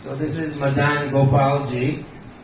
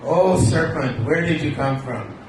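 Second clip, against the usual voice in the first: Vidyavali's voice. Acted. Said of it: "Krishna assumes these voices".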